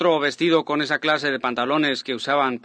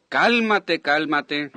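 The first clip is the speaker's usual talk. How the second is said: scolding hush; 3 semitones higher, much slower than usual. Retold or imitated. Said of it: "Y ella dijo".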